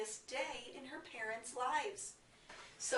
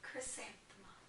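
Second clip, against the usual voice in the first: character saying her name; 2 semitones higher, 11 dB quieter than usual. Retold or imitated. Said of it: "she always said".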